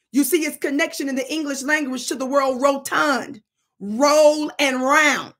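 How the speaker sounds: lecturing tone into a slow drill; teaching. Shown as a demonstration. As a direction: explain then stretch the key words. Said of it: "Repeat after me".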